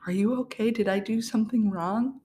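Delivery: a hint of a flustered doctor asking; worried anesthesiologist. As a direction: play the anxious doctor, pitch up. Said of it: "And he's like".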